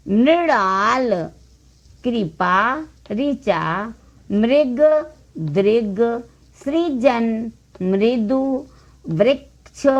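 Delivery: measured reading, one word at a time; word drill. Shown as a demonstration. Teacher reading the list for learners, word drill. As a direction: give each word its own beat.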